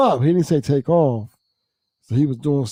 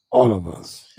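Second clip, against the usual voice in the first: mock scared plea; 10 semitones higher than usual. Scared coworker pleading.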